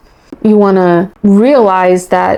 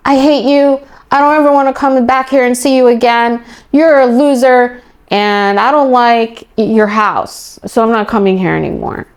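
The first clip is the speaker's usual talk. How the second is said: mimicked angry child; 3 semitones higher than usual. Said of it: "a child comes up to me and says".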